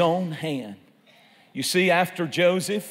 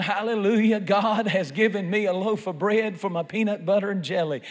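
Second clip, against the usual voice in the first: mildly raised, jubilant mock shout; retold joyful shouting; 3 semitones higher than usual. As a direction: imitate her praising God, pitched up at first. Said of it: "she started shouting".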